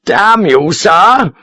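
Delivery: put-on a young officer spluttering with outrage; outraged lieutenant. A narrator's reading. Lieutenant outraged at Sharp, indignant cry.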